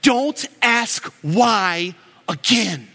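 a hint of a fed-up father, slow; stern dad. Dad at his limit warning his son, mild slow stern voice. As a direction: lay down the law slowly. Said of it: "he gets right down in the little kid's face".

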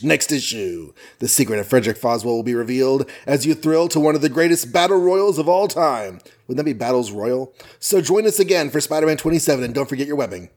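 hammed-up announcer teaser; comic book teaser. Podcast host parodying a comic's next-issue teaser, announcer style. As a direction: sell next issue like a promo.

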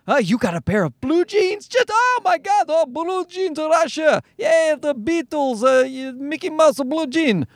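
high-pitched, excited mock Russian accent; horrible Russian accent. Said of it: "that horrible Russian accent".

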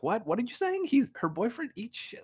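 put-on high, loud disbelieving foreign accent; playing Viktor baffled by the phrase; Viktor's confused accent. Viktor baffled, asking in a high foreign accent. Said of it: "And so he's like".

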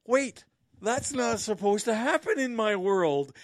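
high, loud mocking voice of a naive person, breaking into a laugh; mocking whiny voice. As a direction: play the shocked dreamer with a sneer, laughing at the end. Mocking out-of-touch people's reaction.

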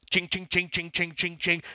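soft, quick mouth-made cash register chings; whispered ching ching ching of a machine; calculator ching noises. Retold or imitated. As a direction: tap out chings like a calculator adding up. Calculator noise while running numbers.

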